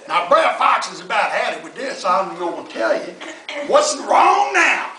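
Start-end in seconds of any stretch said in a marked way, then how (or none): 3.7-4.9 exasperated. Acted. Fox exasperated, bear answers.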